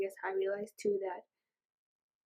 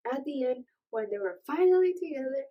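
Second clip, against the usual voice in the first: excited; 4 semitones higher, 5 dB louder than usual. Real, not acted. Thrilled that the couple unite.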